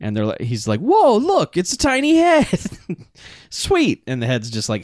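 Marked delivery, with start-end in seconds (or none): 0.8-2.5 high, loud goofy wonder; mock amazement. Henchman finds the tiny head. 3.5-4.0 high-pitched pleased exclamation; mock delight. Henchman delighted by his find.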